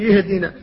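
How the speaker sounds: يهدنا with a ya instead of hamza; wrong pronunciation. Shown as a demonstration. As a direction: say يهدنا with a clear ya at the start. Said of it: "يقول".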